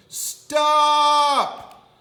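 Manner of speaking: shrieked stop; loud yell. Acted. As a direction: scream stop at him. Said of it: "yelled as loudly as she could".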